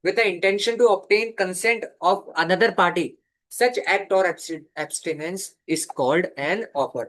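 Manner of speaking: reads the definition word by word, very slowly; slow dictation. Shown as a demonstration. Law teacher dictating a definition to students, very slow.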